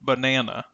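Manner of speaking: teacher models Banana, leaning on the middle na; stress on the middle syllable. Shown as a demonstration. Teacher demonstrating stress on the middle na of Banana. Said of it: "Notice how the middle part of the word sounds louder and longer".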